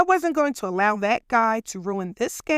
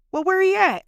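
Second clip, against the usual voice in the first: protective challenge; 8 semitones higher, 4 dB louder than usual. Retold or imitated. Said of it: "Fred immediately said".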